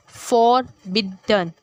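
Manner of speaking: "फॉरबिडन" very slowly as फॉर, बिड, डन; divided syllables. Shown as a demonstration. Teacher showing syllable division, "फॉरबिडन" in three slow beats. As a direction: break "फॉरबिडन" with pauses between syllables. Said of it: "एक एक में divide होता गया".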